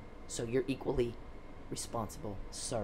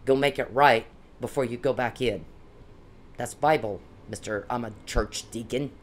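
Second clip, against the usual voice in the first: angry rant. Real, not acted. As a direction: tell him off, voice rising with real fury. Ranting at Mister Perry.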